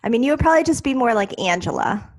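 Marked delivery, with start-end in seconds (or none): 1.4-2.1 Angela said the Long Island way; Long Island accent. Shown as a demonstration. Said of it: "What's my name?".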